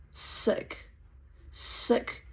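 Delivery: whispered disgust. Retold or imitated. Telling the Nazi how it makes her feel, whispered disgust. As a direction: breathe it out, sickened.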